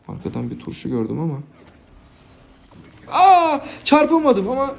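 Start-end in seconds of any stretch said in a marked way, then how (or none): 3.1-4.8 high, loud laughing sorry; laughing yelp and apology. Real, not acted. Crashes into ally, laughing apology.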